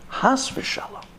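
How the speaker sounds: put-on old man whispering that he won't take money; whispered refusal. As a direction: hush the refusal almost to nothing.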